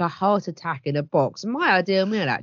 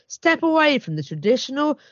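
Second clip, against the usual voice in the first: lively, emphatic advert read; promotional read; 2 semitones higher than usual. Acted. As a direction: sell the festive box with relish. Reads out chef's promotional copy.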